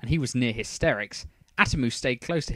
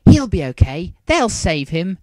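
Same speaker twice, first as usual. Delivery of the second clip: near tears, trying to reassure; 7 semitones higher, 11 dB louder than usual. A narrator's reading. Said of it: "on the verge of tears".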